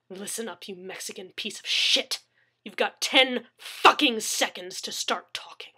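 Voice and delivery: menacing threat. Acted. Gunman threatening captive.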